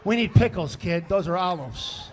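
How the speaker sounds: loud scolding dad. Retold or imitated. Voiced quote to kid.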